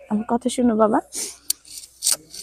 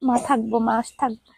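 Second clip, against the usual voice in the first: soft reassurance; 3 semitones lower, 5 dB quieter than usual. Real, not acted. Reassuring an orphaned child.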